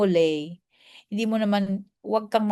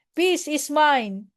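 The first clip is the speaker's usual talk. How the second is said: slow "Peace is mine", level voice; calm mantra; 7 semitones higher, slower than usual. Shown as a demonstration. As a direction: say "Peace is mine" slowly, unhurried. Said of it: "just say". (mabagal na "Peace is mine")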